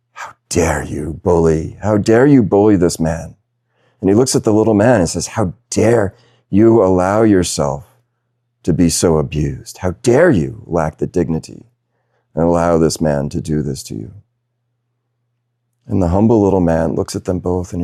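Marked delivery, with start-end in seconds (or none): 0.1-3.4 offended onlooker. Retold or imitated. Onlooker rebukes the bully on the train, acted indignation. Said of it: "becomes so offended, he says". 5.3-14.1 retold scolding that leans on "how dare you"; offended onlooker. Onlooker turns on the meek little man, retold offended rebuke. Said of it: "becomes so offended".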